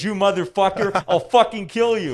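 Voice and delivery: high, loud imitation of a game character; hammed-up angry yell; mock aggressive threat. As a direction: yell it like an aggressive soldier voice line. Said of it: "are super aggressive".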